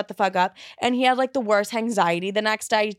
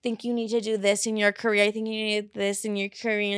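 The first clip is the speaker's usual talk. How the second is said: soapbox preaching. Retold or imitated. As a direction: lightly imitate a friend droning on. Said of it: "having his little soapbox moment".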